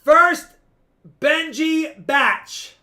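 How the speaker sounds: high, loud, drawn-out lot announcement; hyped announcement. Real, not acted. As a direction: announce it like a big reveal. Playfully announcing the first batch.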